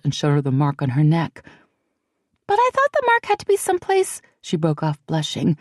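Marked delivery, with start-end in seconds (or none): 2.5-4.2 put-on high, hushed and anxious young woman; a nervous friend fretting in a half whisper; frightened young woman. A narrator's reading. Celianne, breaks off blushing.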